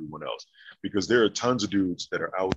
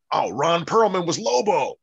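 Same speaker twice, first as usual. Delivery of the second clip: surprised; 10 semitones higher, 5 dB louder than usual. Retold or imitated. Retelling his own surprised realization.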